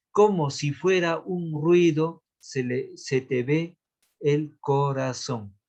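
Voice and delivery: measured, drawn-out reading with pauses between phrases; slow verse scansion. Shown as a demonstration. Teacher reading a verse to count syllables, slow scansion. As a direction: stretch the line out syllable by syllable.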